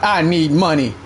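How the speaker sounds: low mock "I need money"; mocking whine. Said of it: "Talking about".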